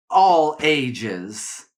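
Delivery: "all ages" set apart after a pause, rising at the end; stress on all ages. Shown as a demonstration. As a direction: lean on "all ages" to underline it.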